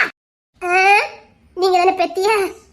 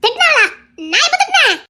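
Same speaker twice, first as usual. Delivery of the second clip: high, louder words broken by laughter; laughing protest; 8 semitones higher, 3 dB louder than usual. Acted. Wife laughs off her husband's claim that she scolded him. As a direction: laugh it off in disbelief.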